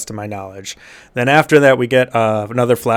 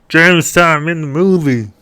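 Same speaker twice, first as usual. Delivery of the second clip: mock announcement; 6 semitones higher, 4 dB louder than usual. Mock announcement opening recap.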